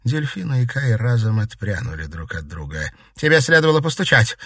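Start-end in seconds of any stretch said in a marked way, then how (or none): 3.1-4.4 higher, louder and quick, scolding; angry rebuke. Acted. Daughter scolding her mother for barging in, angry. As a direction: snap at the intruder for not knocking. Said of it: "сердито сказала Дельфина".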